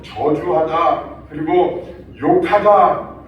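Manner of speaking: very slow, each word laid out; slow spelled-out meaning. Shown as a demonstration. Pastor explaining the Greek words to the congregation, very slow. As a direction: drag out 저주하다 and 욕하다 word by word. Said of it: "그런 말이에요".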